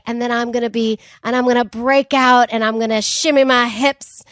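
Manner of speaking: hint of a Southern accent, hammed up; lightly voiced Southern accent, retelling an audition. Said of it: "I used a Southern accent".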